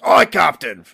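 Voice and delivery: high, loud sailor's acknowledgement; high-pitched voice. Acted. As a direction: call out high and obedient. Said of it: "a really high-pitched voice".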